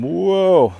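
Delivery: sudden loud dizzy whoa; startled whoa. Real, not acted. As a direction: caught off guard, loud. Gets dizzy while turning around.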